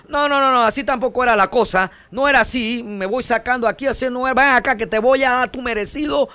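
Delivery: hammed-up fury, threatening payback; mock angry Christ. Pastor parodies an angry Christ leaving the cross, mock rant. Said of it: "bajó de la cruz bravo y diciendo".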